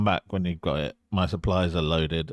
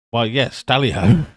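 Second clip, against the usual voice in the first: posh tally-ho; 4 semitones higher, 9 dB louder than usual. Acted. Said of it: "I suppose that'll have to do".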